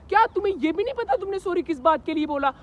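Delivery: imitating an accusing girlfriend; hammed-up girlfriend interrogation; mock indignant girlfriend. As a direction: mimic her scandalised disbelief. Mimics girlfriend demanding reason for sorry.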